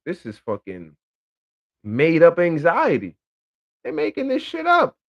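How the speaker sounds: mock outrage at made-up problems; scoffing disbelief. About women's anxiety, scoffing, pitch shooting way up. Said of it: "I'm just like".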